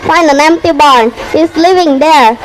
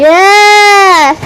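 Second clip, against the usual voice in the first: an eager, bright yes; happy yes; 4 semitones higher than usual. Acted. The duckling gladly accepting the swan's friendship, eager yes. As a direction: answer with delighted eagerness.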